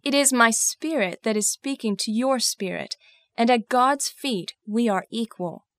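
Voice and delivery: impassioned, indignant outburst; contained anger, driven and emphatic; very angry. Acted. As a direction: protest with rising force and heavy emphasis. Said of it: "I was very angry".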